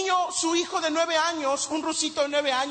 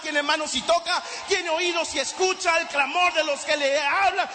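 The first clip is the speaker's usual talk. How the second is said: preaching at full force; 2 semitones higher than usual. Real, not acted. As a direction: proclaim it to the whole congregation.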